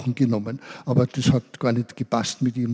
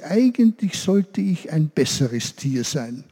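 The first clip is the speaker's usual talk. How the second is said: goat's wish; 3 semitones higher, slower than usual. Acted. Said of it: "da sagte sie".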